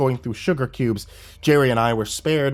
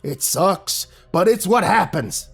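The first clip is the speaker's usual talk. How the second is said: put-on high old man shrugging it off; old captive explaining; matter-of-fact old man; 8 semitones higher than usual. A narrator's reading. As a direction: explain it like it's normal.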